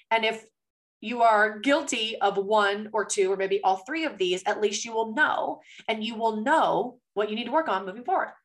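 talking with a dry mouth; dry, thirsty mouth. Real, not acted. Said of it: "my mouth is getting so dry".

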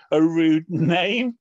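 slow, breaking into a laugh; halting, tickled delivery; amused. Real, not acted. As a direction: laugh before you can finish. Amused by a rude name.

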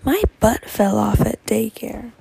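loud, slow imitation of a small child; little cousin's announcement. Little cousin rolling up to the party, loud kid imitation. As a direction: blurt it out like a daycare kid. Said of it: "my little cousin ... she said".

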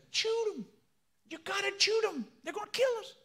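frantic falsetto Cajun character; Cajun accent. Acted. Boudreaux urging Thibodeau to shoot, high Cajun accent. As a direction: urge it in a very high comic Cajun voice. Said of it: "start talking like a Cajun".

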